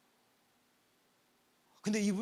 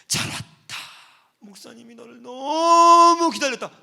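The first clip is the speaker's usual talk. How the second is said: loud, slow, overflowing welcome; heartfelt cry; 4 semitones higher, 16 dB louder, slower than usual. Retold or imitated. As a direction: pour out joy, drawn out and loud. Pastor embraces returning girl.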